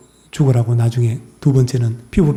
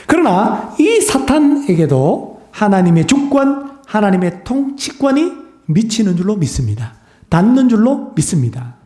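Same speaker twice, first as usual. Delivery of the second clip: high-pitched preaching; 7 semitones higher than usual. Acted. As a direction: stretch out the words like a preacher at full force. Preacher proclaiming God's sovereignty.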